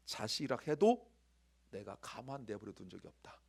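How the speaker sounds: reading a drama line in a mild Gyeongsang dialect; a chairman's cold warning, lightly done in Gyeongsang dialect; a light, understated Gyeongsang dialect. Retold or imitated. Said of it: "이게 경상도 말인데".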